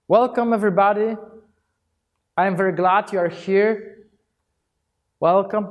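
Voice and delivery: welcoming greeting. Shown as a demonstration. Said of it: "this is how you do the welcome gesture".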